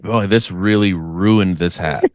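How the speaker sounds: slow, sighing letdown; sighing disappointed. Retold or imitated. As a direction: sigh it out like a sulky fan. Mock sigh as fan.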